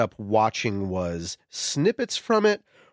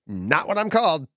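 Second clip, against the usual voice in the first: pitched-up quoted retort; Mega Man's reply; 5 semitones higher than usual. Acted. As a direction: lightly act out the misnamed hero's comeback. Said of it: "And he says".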